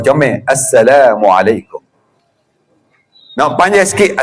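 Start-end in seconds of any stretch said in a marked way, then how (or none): 0.4-1.8 slow, neat "Assalamualaikum" with each syllable clear; nicely said salam. Shown as a demonstration. Preacher teaching the congregation to say salam nicely, slow and careful. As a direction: sound out "Assalamualaikum" neatly and gently. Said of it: "sebut hak molek".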